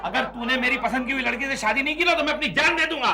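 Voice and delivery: melodramatic ultimatum, climbing in pitch; put-on threat. Husband faking a suicide threat to brother-in-law, rising melodrama. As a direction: build to a high, desperate vow. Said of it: "आप drama करके तो देखिए".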